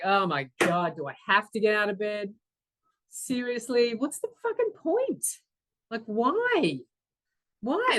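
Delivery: exasperated, pitch leaping up on the questions; exasperated morning whinge. Retold or imitated. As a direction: whine in protest at having to get up. Acts out dreading getting up.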